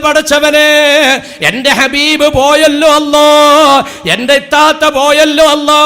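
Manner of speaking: loud keening lament over the dead; mock mourner wailing at a funeral house; mourner's wail. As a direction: cry out to God for the lost brother. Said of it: "അങ്ങനെ കരയുന്നവരാരാ?".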